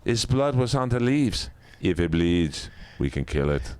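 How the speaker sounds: track the creature like Arnold in the jungle; Schwarzenegger impression.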